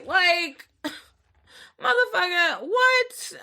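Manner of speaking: high, laughing disbelief; incredulous. Retold or imitated. Reacting to the date's excuse about jeans, incredulous. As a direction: let "what" leap up in mock outrage.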